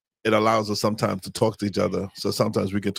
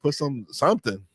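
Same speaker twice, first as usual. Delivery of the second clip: drawn-out teasing; 7 semitones higher, slower than usual. Retold or imitated. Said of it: "playful insistence".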